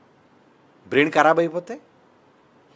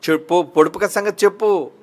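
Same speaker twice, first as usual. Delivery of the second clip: nagging Delilah; 3 semitones higher than usual. Retold or imitated. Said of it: "ఇంకా ఊరుకోవట్లేదు".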